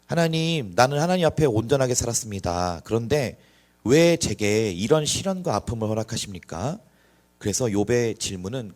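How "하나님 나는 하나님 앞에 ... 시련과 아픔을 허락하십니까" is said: anguished cry to God. Acted. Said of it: "항변합니다".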